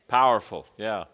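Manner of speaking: a loud, emphatic "Powerful"; enthusiastic praise. Real, not acted. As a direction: punch it out to cheer the student on. Affirming a student's answer.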